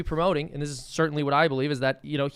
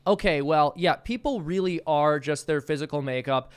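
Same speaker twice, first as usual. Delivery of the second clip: mock reasoning voice; 4 dB louder than usual. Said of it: "we have to say".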